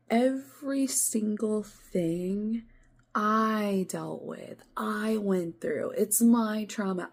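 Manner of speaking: retold outburst. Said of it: "retold angry reply to him".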